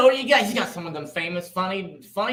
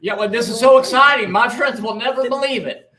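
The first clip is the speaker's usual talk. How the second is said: star-struck fan; 6 semitones higher, 5 dB louder than usual. Acted.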